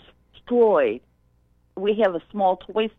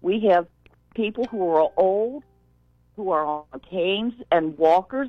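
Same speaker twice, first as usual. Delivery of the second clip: gently raised, careful pleading tone; polite warning. Retold or imitated. Store clerk politely warns a parent about kids racing, gentle pleading. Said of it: "and now this is how I did".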